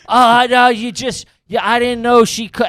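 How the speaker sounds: high, flustered stammer; flustered backpedal. Retold or imitated. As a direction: scramble to backpedal, caught off guard. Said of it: "He turns around".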